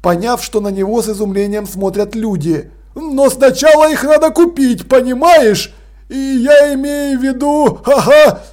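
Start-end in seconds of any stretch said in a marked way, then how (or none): 3.0-8.4 выше и громче, с нервным смешком; неловко хихикает; нервный смешок. Acted. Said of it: "Он нервно засмеялся". (Крохобор нервно смеётся, оправдываясь)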